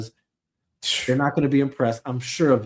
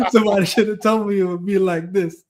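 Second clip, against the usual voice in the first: higher, playful outcry amid laughter; mock lament; 4 semitones higher, 4 dB louder than usual. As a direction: repeat the complaint as a bit. Repeating the catchphrase for laughs.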